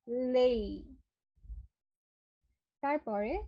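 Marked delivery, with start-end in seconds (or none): 0.1-1.0 লেই with the e sliding into a clear i; correct pronunciation. Shown as a demonstration. Teacher models lay against the wrong le. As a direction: say লেই with a full e-to-i glide. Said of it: "not লে".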